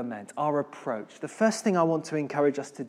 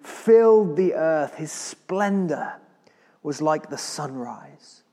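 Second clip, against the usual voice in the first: measured, solemn Bible reading; a preacher reading scripture to the church; 2 semitones lower than usual. Acted. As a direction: read the psalm with weight and awe. Reads Habakkuk scripture aloud.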